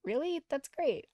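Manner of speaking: eager surprised delight; delighted surprise. Acted. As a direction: burst out, overjoyed at the news. Delighted she likes anime too.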